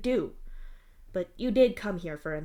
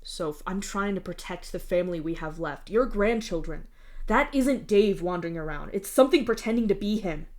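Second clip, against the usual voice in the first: desperate plea. Acted. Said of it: "you say desperately".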